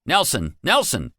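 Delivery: guard calling his base in panic; urgent call. Acted. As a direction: summon help fast. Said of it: "he called into it".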